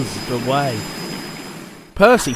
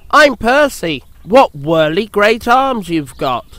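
Percy voice; 5 semitones higher than usual. Acted. Percy introduces himself.

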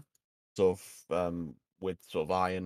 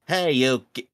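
loud gruff dwarf shout, higher; 6 semitones higher, 10 dB louder than usual. Acted. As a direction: bark it out as the dwarf. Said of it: "no, hang on".

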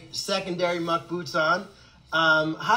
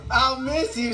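higher mock farewell; imitated goodbye; 4 semitones higher, slower than usual. Repeating her line before going in the pond, imitated goodbye. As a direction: say it as her, pitched up. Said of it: "She's like".

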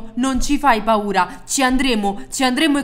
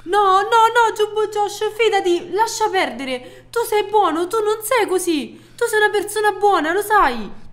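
1 supplica; 6 semitones higher than usual. Acted. Lo supplica di fermarsi.

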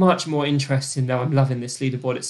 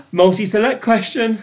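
loud, higher announcement; excited build-up; 3 semitones higher, 6 dB louder than usual. Acted. Host announcing the question type to players, excited. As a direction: announce it with rising thrill.

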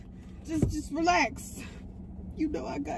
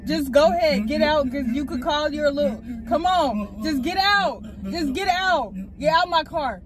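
firm angry order; 4 dB louder than usual. Real, not acted. Ordering him out of car.

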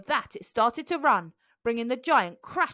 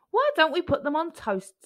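Mum suggesting; 7 semitones higher, 3 dB louder than usual. A narrator's reading. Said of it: "suggested Mum".

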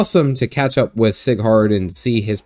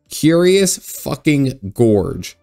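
slow disbelief; 3 semitones higher, much slower than usual. Real, not acted. Repeating absurd name.

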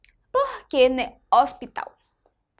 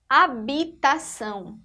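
slow HABITAÇÃO as a-bi-ta-ção; syllable by syllable; 3 dB louder, slower than usual. Shown as a demonstration. Teacher has pupils listen to the sound, syllable by syllable. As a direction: pronounce each syllable of HABITAÇÃO separately. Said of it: "Ó o som".

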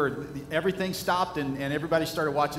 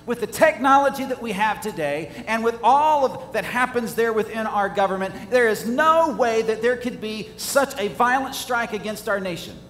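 louder and higher, mock-incredulous Russian-free scoff; scoffing doubter; 4 semitones higher, 5 dB louder than usual. Preacher voices a doubter dismissing the attack, loud scoffing. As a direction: scoff it off as an impossible claim. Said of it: "they would look at you as if to say".

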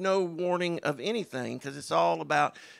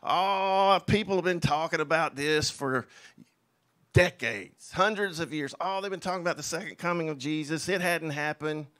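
mock scoffer; 3 dB louder than usual. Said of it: "they're gonna say".

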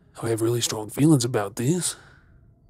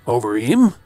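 sudden sneering snap, much louder; scornful outburst; 11 dB louder than usual. Acted. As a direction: spit the question with contempt. Scornful at her crying.

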